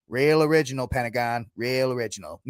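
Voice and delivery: Kevin Costner. Retold or imitated. Costner to his aide about the Pentagon, dry mock accent. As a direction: lightly imitate a Mayor Quimby accent. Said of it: "he has the worst accent".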